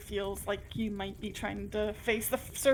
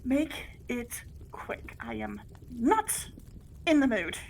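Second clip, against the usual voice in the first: weary, impatient; slower than usual. Acted. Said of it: "take a sharp inhale... exhales".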